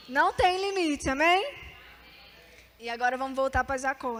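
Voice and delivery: ordinary delivery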